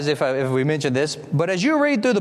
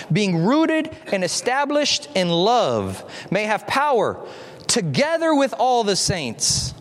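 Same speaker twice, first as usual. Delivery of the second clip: slow, measured reading of a prayer; scripture reading; 2 semitones higher, slower than usual. Acted. Preacher reading Paul's prayer to the congregation, slow and measured. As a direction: read the prayer out slowly, drawing out the phrases.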